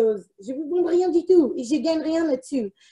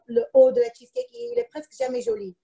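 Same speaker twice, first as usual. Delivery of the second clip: exasperated; 8 semitones higher, faster than usual. Real, not acted. Complaining about ugly cheesecake tops.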